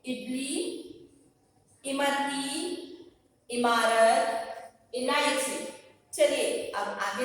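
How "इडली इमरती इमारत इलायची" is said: drawn-out words with long gaps to echo; teacher's stretched word-by-word drill; repeat-after-me pronunciation. Shown as a demonstration. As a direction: say इडली, इमरती, इमारत, इलायची slowly for pupils to copy. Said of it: "आप मेरे पीछे बोलेंगे".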